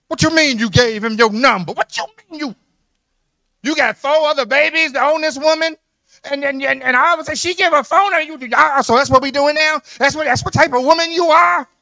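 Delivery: jealous husband's outburst. Acted. Cheating husband confronting his girlfriend over a phone number, loud mock outrage.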